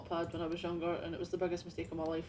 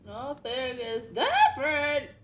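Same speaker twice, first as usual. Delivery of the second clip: slow indignant; 6 semitones higher, 6 dB louder, much slower than usual. Pretend. Mock outrage, dragged out.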